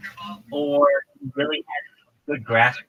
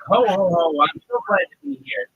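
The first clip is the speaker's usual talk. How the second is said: hearty ho ho ho, higher and louder; jovial person; 5 semitones higher, 5 dB louder than usual. Pretend. Teacher voicing a jolly person for jovial, hearty laugh. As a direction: boom out a cheerful greeting. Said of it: "someone who would say".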